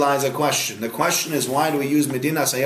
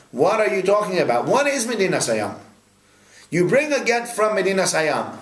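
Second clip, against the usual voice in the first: mildly exasperated, higher-pitched puzzled questioning; bothered questioning; 5 semitones higher than usual. Retold or imitated. Teacher voices Rashi's question to students, mildly bothered and puzzled. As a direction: imitate a scholar baffled by the text, pitched up. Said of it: "Rashi's bothered by the following question".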